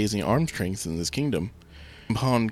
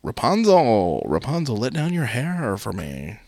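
calling up; 3 semitones higher, 4 dB louder than usual. Acted. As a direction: call up to the tower, then ease off. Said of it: "calling up".

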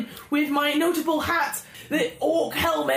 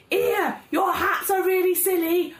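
mocking shout; 4 semitones higher than usual. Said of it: "So I rush up and I'm like".

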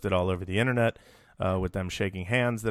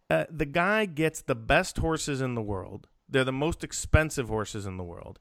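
measured, emphatic soapbox opening; soapbox speech; 3 semitones higher than usual. Pretend. Host on his soapbox defending a trainer, deliberate and emphatic. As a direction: make each claim land like a case being argued. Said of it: "can I do Soapbox Billy".

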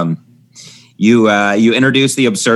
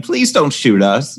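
mock pleading president; 4 semitones higher, slower than usual. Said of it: "the president saying".

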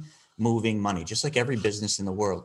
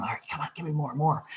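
quick, higher, softer eager voice; a hungry listener begging for more; eager ear; 5 semitones higher, 4 dB quieter, faster than usual. Retold or imitated. Eager listener urging Mike to keep explaining. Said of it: "that ear starts going".

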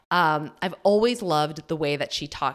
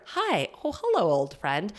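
mock greeting; 4 semitones higher than usual. To her own fear, a bright mock hello. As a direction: greet fear like an old acquaintance.

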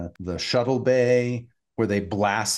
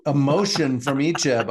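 laughing; 8 semitones higher than usual. Real, not acted. Laughing disbelief at the scene.

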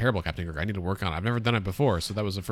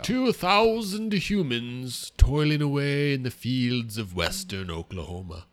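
pompous funny voice. Acted. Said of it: "What is this voice you're doing?".

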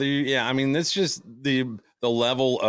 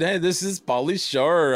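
Pauly Shore impression; 7 semitones higher than usual. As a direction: ham up a surfer dude. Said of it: "When he said".

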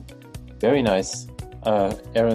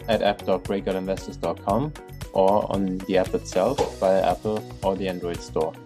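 upbeat host reading the sign-off; podcast outro read. Acted. Podcast outro over music.

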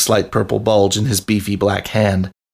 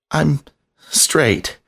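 humble; 6 semitones higher than usual. A narrator's reading. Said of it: "with sincerest humility".

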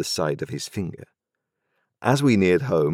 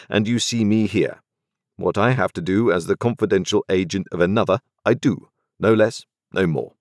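a lightly voiced London lawyer, a bit higher and measured; cool, businesslike lawyer laying down terms; a hint of a dry, formal lawyer; stern lawyer; 3 semitones higher than usual. Jaggers introduces himself.

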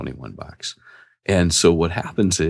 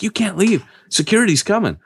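much higher, mock panicky girl voice; mimicking the shop girl; 14 semitones higher than usual. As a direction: squeak it like the nervous clerk. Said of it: "She's like".

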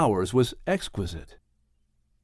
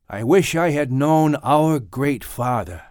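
Noah's wistful voice; 2 semitones higher, 3 dB louder than usual. A narrator's reading. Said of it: "Noah said".

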